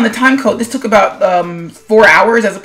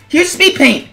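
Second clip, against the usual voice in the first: mocking sarcastic voice; 2 semitones higher than usual. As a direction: poke fun at the bare speed paint. Mock pitch of a plain speed paint.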